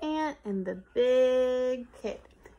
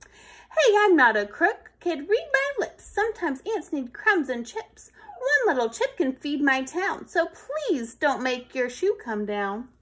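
protesting ant; 2 semitones higher, 6 dB louder than usual. Acted. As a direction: set the kid straight. Ant protests being called crook.

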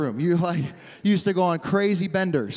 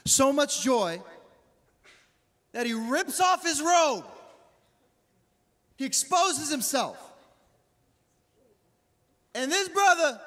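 dramatic preaching; 8 semitones higher, slower than usual. Acted. Preaches the David story.

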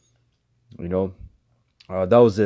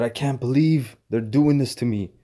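a light mock of the man's disbelief; mimicking the arrested man; 4 semitones higher than usual. Preacher mocks the arrested man's words to his audience, lightly mimicking. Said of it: "He said".

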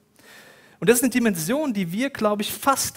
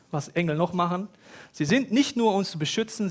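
usual speaking voice

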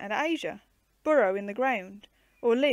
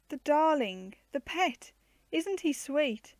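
cooing; 4 semitones higher, slower than usual. Acted. Girls cooing over baby kangaroo.

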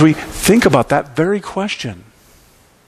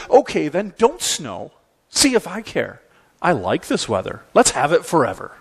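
mock sulky defiance; sulky kid pretending not to care, dropping in pitch; Calvin disgusted; 3 semitones higher, 3 dB quieter than usual. Calvin gives up on God sending snow, sulky mock defiance. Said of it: "thoroughly disgusted with God's failure".

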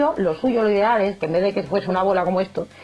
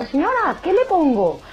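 baker voice; 9 semitones higher than usual. Pretend.

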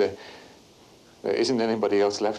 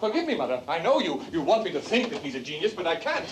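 higher, rising heat as he refuses to lie; heated defiance; 5 semitones higher than usual. Acted. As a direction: push back at her, getting hotter. Son quarrels with mother.

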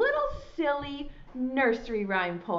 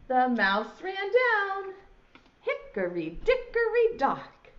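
nursery rhyme recital. Shown as a demonstration. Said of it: "It goes like this".

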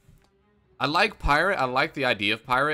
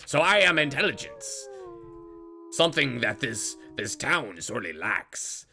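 pirate voice; 2 semitones higher than usual. Pretend. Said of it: "talking a pirate voice".

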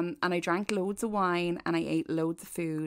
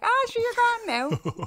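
teasing high mock; 5 dB louder, slower than usual. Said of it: "And I was like".

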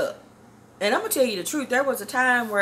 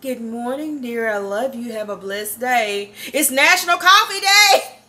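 imitating mom; 3 semitones higher, 7 dB louder than usual. Daughter mimicking her mother's message, sweet then squealing. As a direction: sing it sweet like mama did. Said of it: "that's the kind of mama I got".

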